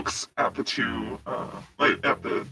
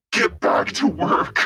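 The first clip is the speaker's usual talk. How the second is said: higher, slow captain's bellow at modest volume; mock bellow; 7 semitones higher, slower than usual. Angry captain ordering everyone on the ship, restrained bellow.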